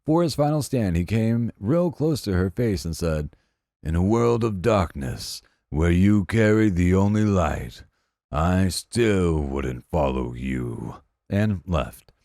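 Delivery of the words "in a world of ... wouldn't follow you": mock grand speech. Fired guy's grand final words.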